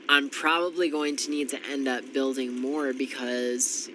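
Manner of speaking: ordinary delivery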